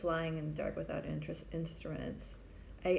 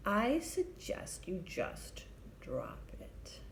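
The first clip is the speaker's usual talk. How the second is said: slow, hushed, tired advice; near-whispered and slow, weary; much slower than usual. Retold or imitated. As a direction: let it out like a worn-out boss. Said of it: "puts down his papers wearily".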